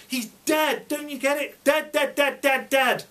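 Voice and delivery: high, loud, desperate shouting; mum's shouting. Retold or imitated. Mum shouting at Grandma who forgets, desperate loud shout. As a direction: scream the word dead over and over. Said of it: "she shouted at Grandma".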